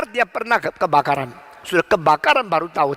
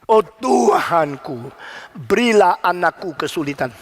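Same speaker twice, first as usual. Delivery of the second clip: General MacArthur. Retold or imitated. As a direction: recite a grand plea to God. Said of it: "Dia berkata". (doa khidmat yang dibacakan dengan agung)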